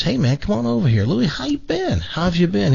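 high, eager acted greeting; calling to buddy. Man greets long-unseen buddy Louie, calling him over. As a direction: hail an old friend from afar. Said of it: "he yells across the street".

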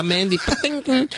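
Mandy Patinkin with a high, clattering PATINKIN; clanging name. Acted. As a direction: say the name like falling metal trays. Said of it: "it's like somebody dropped, uh, some, uh, metal trays".

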